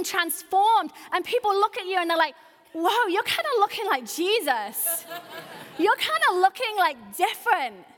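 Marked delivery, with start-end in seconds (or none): 2.7-7.9 mock amazement. Acts amazed onlookers, stretched words.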